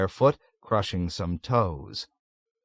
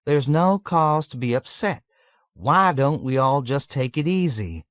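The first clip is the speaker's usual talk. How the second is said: higher-pitched friendly reassurance; affable counsel; 5 semitones higher than usual. A narrator's reading. Texan telling fellow patients to relax, affably. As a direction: placate them with an uncertain grin. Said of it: "counseled affably with an uncertain grin".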